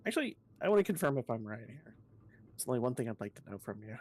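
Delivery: put-on quick British-accented character read; brisk attempt at a British accent. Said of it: "I haven't tried to do a British accent in a while".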